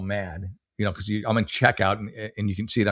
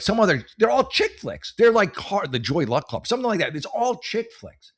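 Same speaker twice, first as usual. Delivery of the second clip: incredulous outrage; 9 semitones higher than usual. Real, not acted. Telling a listener about the hotel's chick-flick bill, high and incredulous. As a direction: voice climbing high in disbelief.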